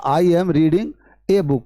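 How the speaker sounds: slow, drawn-out teacher's read of "I am reading a book"; slow demo. Shown as a demonstration. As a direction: read "I am reading a book" very slowly as one phrase, leaning on "a". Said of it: "मैंने कहा". (धीमे, खींचकर पूरा वाक्य)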